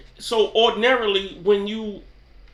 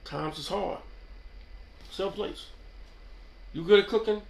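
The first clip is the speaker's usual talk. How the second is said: quiet echo; 7 dB quieter than usual. Real, not acted. Echoing his own shout quietly to viewers.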